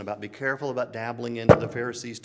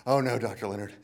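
sheepish admission. Retold or imitated. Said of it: "And he went".

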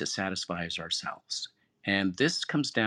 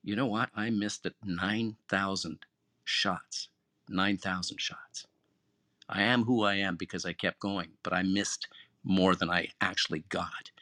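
calm, humble. Retold or imitated. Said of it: "very calmly and humbly said".

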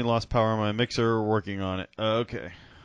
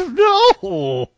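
sharp high shout; 9 semitones higher, 6 dB louder than usual. Real, not acted. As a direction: yell it in protest. Mock outrage at Burger King.

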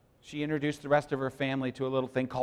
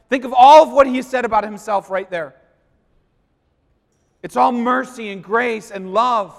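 proclaiming; 8 semitones higher, 14 dB louder than usual. Acted. Proclaiming God's words.

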